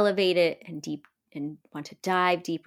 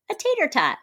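much higher mock voice; mock quote; 10 semitones higher than usual. Retelling the food mix-up, high mock voice. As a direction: squeak it out playfully. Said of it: "she's like".

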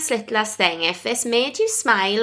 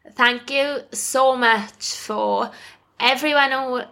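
trying to get the words out through tears; real tears, a sigh, then a laugh; teary thank you; 3 semitones higher than usual. Real, not acted. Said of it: "Am I gonna cry?".

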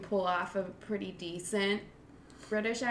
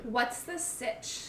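put-on valley girl; 4 semitones higher, slower than usual. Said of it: "so the Valley Girl accent".

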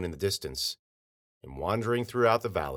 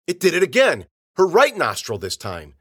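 much higher and louder, alarmed; rising alarm; 10 semitones higher, 11 dB louder than usual. A narrator's reading. The narrator reacts in shock as the nose transforms. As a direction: blurt it out in growing horror.

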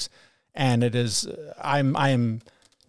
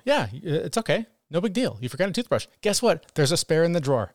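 compassionate self-talk; 4 semitones higher than usual. Retold or imitated. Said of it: "that moment of compassion".

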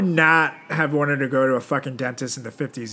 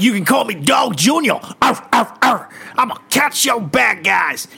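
yappy chihuahua voice; 5 semitones higher than usual. Pretend. Imagining himself as Dog Junior.

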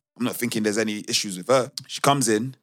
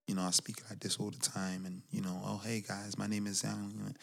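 much softer, shy and small; timid voice; 15 dB quieter than usual. Shown as a demonstration. Salesman showing customers a timid voice, very soft. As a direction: shrink into a timid murmur. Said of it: "a very timid voice".

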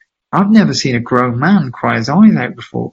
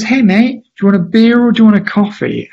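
high, bright, quick mock welcome from the dad; cheery welcome; 8 semitones higher than usual. Dad greeting Jamie at the door, high and quick. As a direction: rattle off the offer cheerfully.

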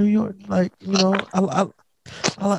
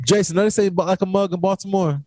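higher, animated protest; excited insisting; 6 semitones higher, faster than usual. Real, not acted. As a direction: pitch up and push back hard. Insisting in argument over slang.

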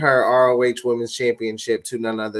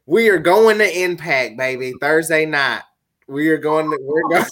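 hyped wrestling promo voice; 4 semitones higher than usual. Pretend. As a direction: cut a pumped-up promo like a wrestler. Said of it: "you have to talk like that".

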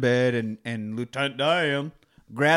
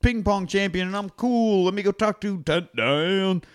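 imitating Forrest; 4 semitones higher, 4 dB louder than usual. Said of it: "Forrest is like".

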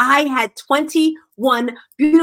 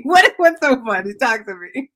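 normal talking voice

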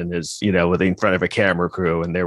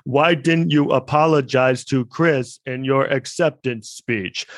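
higher and slow, as if reading it cold; mock fake surprise; 5 semitones higher, slower than usual. Mimicking Will Smith's rehearsed answer, mock surprise. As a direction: pretend you've never seen the question. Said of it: "he should get an Oscar for that performance".

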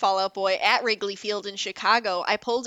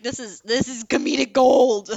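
excited exclamation; 4 semitones higher, 9 dB louder than usual. Retold or imitated. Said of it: "I was like".

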